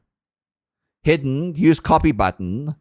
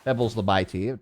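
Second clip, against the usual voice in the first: quiet; 5 semitones lower, 6 dB quieter than usual. Shown as a demonstration.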